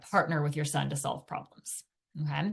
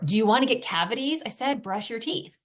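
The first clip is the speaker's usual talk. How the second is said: scolding parent; 5 semitones higher than usual. Retold or imitated. Mom scolding her young son, exasperated. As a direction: nag a six-year-old like a fed-up parent.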